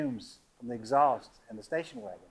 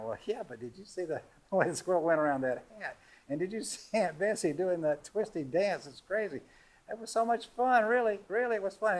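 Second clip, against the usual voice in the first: rising, giddy, higher by the end; excited kids; 6 semitones higher than usual. Retold or imitated. Daughters cheering up their parents about the party, giddy and higher. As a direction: gush about the fun like a thrilled kid.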